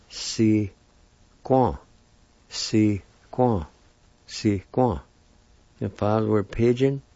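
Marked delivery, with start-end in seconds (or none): 0.1-5.0 C'est quoi said as sikwa, falling on quoi; careful pronunciation. Shown as a demonstration. Teacher modelling the word for pig, repeated. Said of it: "it's pronounced like this".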